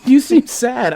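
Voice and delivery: high, giggly teasing; laughing through a playful question. Real, not acted. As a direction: tease while still laughing.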